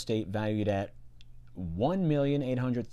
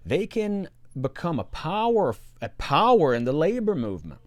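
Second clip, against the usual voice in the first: mock Russian accent; 6 semitones higher, 5 dB louder than usual. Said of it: "I'm gonna put on the Russian accent first".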